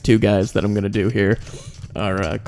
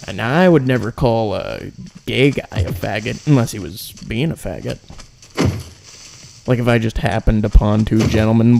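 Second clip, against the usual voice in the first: Louis C K. Acted. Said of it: "That's Louis C K".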